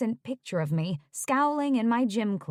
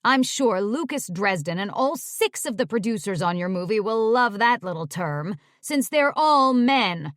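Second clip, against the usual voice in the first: angry sarcasm; 5 dB louder than usual. Acted. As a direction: build the scolding to a peak. Angry agent berating client.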